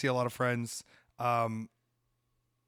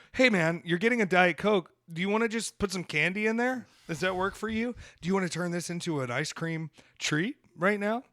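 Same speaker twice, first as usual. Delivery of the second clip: mock pushy salesman; 4 semitones higher than usual. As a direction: ham up an overeager menu voice. Mocking the upselling Sonic menu.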